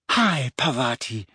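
slow, drawn-out cheery hello; beaming back brightly. A narrator's reading. Hermione answering Parvati while ignoring Ron, beaming. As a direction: return the greeting with an extra-bright beam. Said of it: "Hermione was beaming back, if possible, even more brightly".

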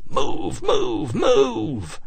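rising, high repeated order; urgent yell. A narrator's reading. Officer yelling at the crowd to move, urgent. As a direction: push them to move. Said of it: "Bobby yelled".

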